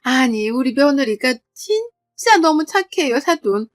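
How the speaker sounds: lightly voiced in-law, animated admiration; gushing praise. Sister-in-law's mother-in-law praising her, mildly gushing. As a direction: heap on praise with rising emphasis. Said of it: "갑자기 신우 칭찬을 막 하더라고요".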